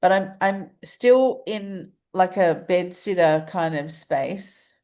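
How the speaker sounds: stuffed-up voice through the nose; blocked nose. Real, not acted. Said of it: "I can't breathe through my nose".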